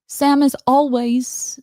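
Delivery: put-on trying out a British accent, drawn-out words; attempted British accent. Reading a quote aloud, attempted British accent. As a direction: struggle through a British accent. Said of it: "I can't do it".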